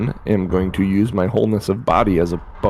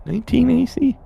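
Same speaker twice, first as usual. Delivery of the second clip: squeaky thrilled boast; excited high voice; 13 semitones higher than usual. Real, not acted. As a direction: shout it up high with glee. Excited over missed attack.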